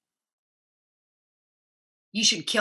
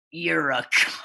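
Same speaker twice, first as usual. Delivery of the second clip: whispered jab, half joking; mock whisper; 3 semitones lower, slower than usual. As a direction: whisper the insult like a sly aside. Mock insult to absent friend.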